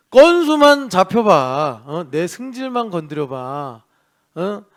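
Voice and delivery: spoiling for a fight, played for laughs; mock threat. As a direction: dare someone to cross you, theatrically. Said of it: "불같이 화를 내는 거예요".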